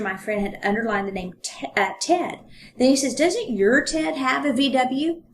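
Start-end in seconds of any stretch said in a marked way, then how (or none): 3.1-5.2 lightly teasing question, a little slow; a mild, understated joke; joking. Retold or imitated. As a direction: tease her gently. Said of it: "in a joking way".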